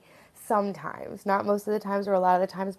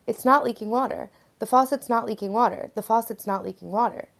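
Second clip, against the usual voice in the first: higher, louder insistence, repeated; mock denial; 3 semitones higher, 5 dB louder than usual. Acting out someone with a leaky faucet, in insistent denial. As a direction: play someone stubbornly denying the obvious. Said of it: "you're in total denial".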